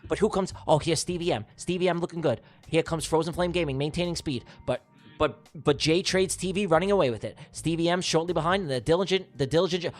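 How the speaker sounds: running horse-race style call; live race commentary. Acted. Streamer calling a giveaway race, play-by-play commentary.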